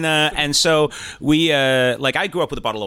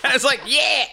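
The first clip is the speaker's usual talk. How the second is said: high, giggly yeah; stunned, laughing through the word; much higher, amused yeah of disbelief. Retold or imitated.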